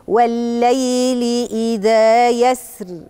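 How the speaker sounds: slow يسر ending on a thin, light r; light raa. Shown as a demonstration. Teacher showing the thin r in يسر. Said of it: "فهتبقى الراء هنا رقيقة".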